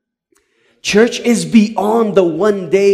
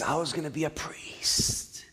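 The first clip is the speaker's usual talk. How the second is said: tearful confession; 16 dB quieter than usual. Retold or imitated. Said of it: "he starts crying".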